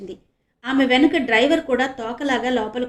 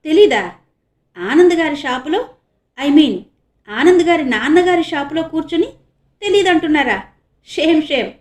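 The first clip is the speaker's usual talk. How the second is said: with a little laugh; 5 semitones higher, 7 dB louder than usual. A narrator's reading. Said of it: "చిన్నగా నవ్వుతూ అంది ప్రియాంక".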